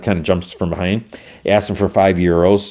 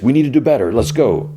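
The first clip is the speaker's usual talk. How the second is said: raised, forceful urging; pushy coach demand; 5 semitones higher than usual. Retold or imitated. Johnny pushing the team after the loss, forceful.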